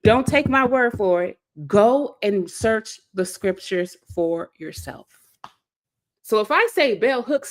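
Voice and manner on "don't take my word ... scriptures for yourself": a light take on a preacher, stress on take, then slowing down; lightly voiced pastor urging the flock, slower at the end; son's preaching refrain. Quoting the pastor's son, mild preacher cadence. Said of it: "so does his son".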